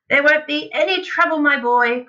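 high, loud, breezy dismissal; excited cry. A narrator's reading. Father interrupting his worried boy, crying out. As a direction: cut in and wave away doubt. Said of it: "cried Mister Cranky".

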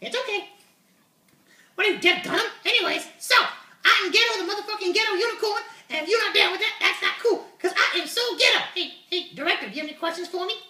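swaggering high puppet voice; brash puppet unicorn. Acted. Puppet voice Uni continues.

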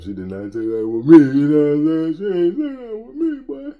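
playful loud protest. Real, not acted. To viewers after a that's-what-she-said joke, playful loud protest. Joking comeback, raised voice.

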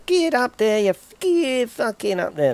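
high, straining urge on the climb; coaxing the truck uphill, high and strained; urging on. Real, not acted. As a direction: egg the truck up the hill. Urging vehicle up a hill.

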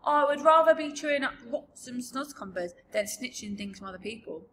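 high start, falling giant indignation; lightly pompous giant voice; proud giant. Acted. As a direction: refuse it on principle. BFG proudly refuses to steal.

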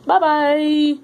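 high, loud goodbye; cheery loud bye. Real, not acted. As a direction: shout a cheery farewell. Cheery sign-off.

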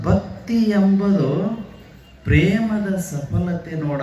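slow, drawn-out recitation of the guru's words; solemn quoted saying. Retold or imitated. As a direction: stretch ಎಂಬುದು out with a rise, very slowly. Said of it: "ಪುಟ್ಟಯ್ಯಜ್ಜವರು ಏನ್ ಹೇಳಿದ್ರು ಅಂತಂದ್ರೆ". (ನಿಧಾನವಾಗಿ ಎಳೆದು ಹೇಳಿದ ವಚನ)

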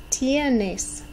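"Tienes." with a clear Spanish i like English E and e like English A; Spanish vowels clear. Shown as a demonstration. Teacher shows the Spanish vowels in "Tienes.", clear and careful. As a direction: say "Tienes." as tee-EH-nes with pure Spanish vowels. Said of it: "You can hear an E sound for that I and an A sound for the E".

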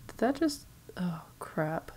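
startled hushed whisper. Real, not acted. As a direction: gasp it under your breath. Startled in a horror game.

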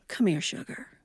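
soft, gentle come here; teacher calling a pupil gently. Retold or imitated. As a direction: coax the child to the front. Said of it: "she would gently call us".

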